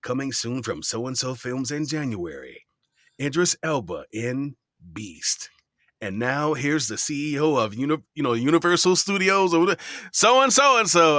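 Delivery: a light movie trailer announcer voice; rising like a movie trailer announcer. Shown as a demonstration. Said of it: "put on my best trailer voice".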